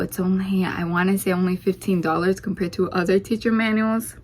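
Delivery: slightly winded talking; breathless, out of breath voice. Real, not acted. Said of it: "Sorry, I'm out of breath again".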